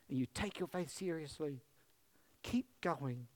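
a soft unvoiced whisper of encouragement; whispered urging. Real, not acted. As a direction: breathe it out like a private plea. Pastor urging men at close.

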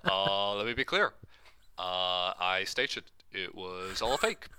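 measured, halting presidential cadence; Obama impression. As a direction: do Obama, pausing before each line. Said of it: "like, an Obama impre-, impression".

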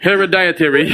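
"Hereditary" as hera-die-a-terry; mispronounced. Shown as a demonstration. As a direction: mangle it with a DIE syllable. Mangling the hard word, laughing.

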